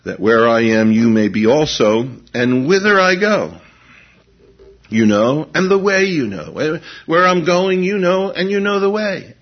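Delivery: rising to a fervent peak; preaching at full force. Real, not acted. Preacher proclaiming Jesus' words to the congregation, fervent and loud.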